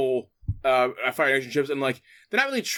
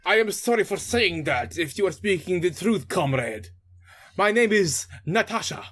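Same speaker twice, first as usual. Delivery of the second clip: put-on Russian accent; 3 semitones higher than usual. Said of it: "going in general Russian accent".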